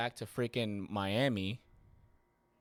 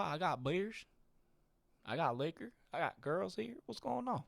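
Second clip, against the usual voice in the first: put-on higher, questioning Miami accent; 7 semitones higher than usual. Young guy objecting to being kicked out, Miami accent. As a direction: protest lightly in a Miami accent. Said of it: "I don't know what I'm doing the accent".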